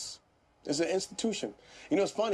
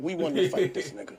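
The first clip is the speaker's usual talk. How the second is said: laughing. Real, not acted. Laughing about old anger.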